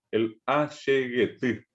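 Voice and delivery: said slowly for the class to repeat; teacher spells out Ashegeti slowly; slow model word. Shown as a demonstration. Teacher models Ashegeti slowly for students to repeat. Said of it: "si ustedes quieren repetir conmigo".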